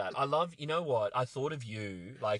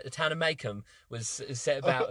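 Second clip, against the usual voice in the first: imitated British rapper; British rapper accent; 3 semitones higher than usual. Teacher reading the novel to students, British rapper accent. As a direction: read it like a mock British rapper. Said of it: "a version of his British rapper".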